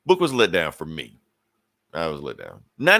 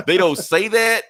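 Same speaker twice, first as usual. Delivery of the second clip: excited high burst; 10 semitones higher, 7 dB louder, slower than usual. Real, not acted. Laughing excited outburst.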